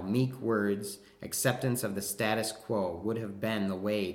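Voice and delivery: stage speech of a reproachful husband; exasperated husband monologue. Acted. Husband rebuking Medea over her banishment, reproachful. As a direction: scold her in a measured, theatrical reading.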